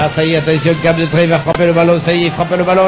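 fast, building play-by-play; excited sports commentary. Acted. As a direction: call the kick as it flies. Commente le tir au but. (commentaire sportif qui s'emballe)

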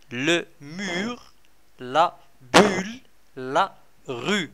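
slow, careful French words for pupils; teacher reading vocabulary slowly; slow modelling. Shown as a demonstration. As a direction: spell each word out slowly for the class.

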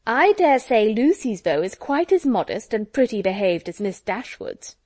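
loud, swooping, pointed tease; exaggerated, significant lilt, easing at the end; knowing insinuation. A narrator's reading. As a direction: drop a heavy hint for all to hear. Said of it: "looking significantly round at them".

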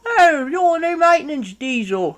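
high-pitched, flustered politeness; high voice settling into a polite welcome; apologetic truck character. Acted. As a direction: play a friendly truck, embarrassed at being rude.

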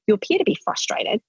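put-on calm parent defusing a frustrated kid; gentle check-in. Shown as a demonstration. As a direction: offer the choice gently, no pressure. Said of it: "if you just go".

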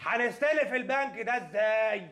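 hanestelef drawn out slowly, each word placed; correcting himself to sound polite; slow, careful rewording. Acted. After the correction, slow and careful. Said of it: "اسمها استلاف".

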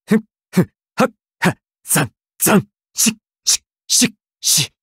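sharp, punchy combat efforts; quick bursts of breath and voice, like striking; fighting-game attack noises; short attack grunts. Acted. Combat effort calls in game voice lines.

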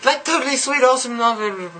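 put-on high bubbly valley girl voice, every totally gushed; mock valley girl accent. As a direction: play a ditzy valley girl gushing to her friends. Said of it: "I love accents".

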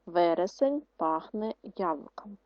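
Вересень пахне яблуком said slowly, word by word, for writing; slow, clear dictation to second graders. Shown as a demonstration. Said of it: "пишемо перше".

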